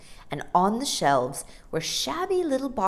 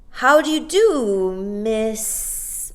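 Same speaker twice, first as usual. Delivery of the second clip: put-on polite boy; 6 semitones higher, 8 dB louder, much slower than usual.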